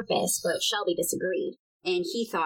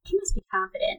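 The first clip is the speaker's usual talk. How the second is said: dry whispered remark; whispered aside; faster than usual. Real, not acted. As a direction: whisper it wryly.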